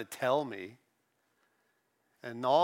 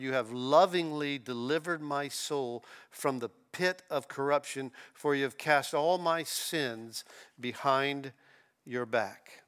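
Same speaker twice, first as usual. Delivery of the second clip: "lovingly" leaned on with a rising tune; underlined word. Shown as a demonstration. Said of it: "and I'd underline that word".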